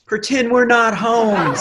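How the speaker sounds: put-on high, slow little-old-lady voice; grandma's hushed plea. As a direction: whisper it like a sneaky grandma. Grandma hushing at the cop.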